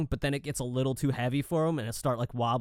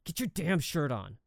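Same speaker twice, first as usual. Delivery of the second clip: muttered under breath; 4 semitones higher, 5 dB quieter than usual. Retold or imitated. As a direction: say it under your breath so the kid won't hear. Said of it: "under her breath".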